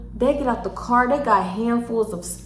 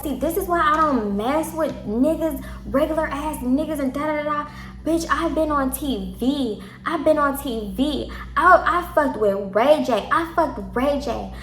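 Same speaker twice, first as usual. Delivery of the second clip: put-on drunk ranting; 4 semitones higher than usual.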